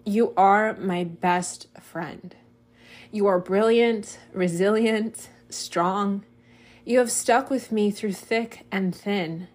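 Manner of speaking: slow, deliberate letter read with space between phrases; slow heartfelt reading. Real, not acted. Writer reading a love letter to their own body, slow and heartfelt. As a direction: read it very slowly, feeling each phrase. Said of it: "read that very slowly".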